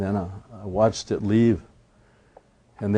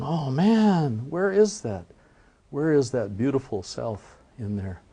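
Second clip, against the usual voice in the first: higher, whiny dismay over a lost reflection; dismayed Iktomi; 4 semitones higher than usual. Retold or imitated. Iktomi at the stirred-up lake, higher dismayed whine. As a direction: whine like a vain trickster who lost his face.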